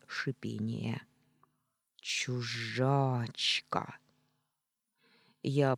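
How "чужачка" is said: slow whispered hiss; ghostly hiss. Acted. Ghost hisses at the intruder in a slow whisper.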